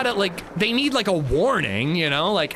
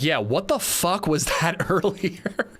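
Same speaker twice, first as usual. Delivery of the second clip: laughing quote; slower than usual. Retold or imitated. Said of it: "she was like".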